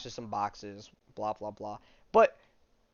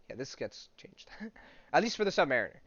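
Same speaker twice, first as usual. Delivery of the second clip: hushed whisper that breaks into a laugh; giggly conspiratorial whisper; whispered aside. Real, not acted. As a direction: lean in and whisper the joke. Aside mocking comic's retcon.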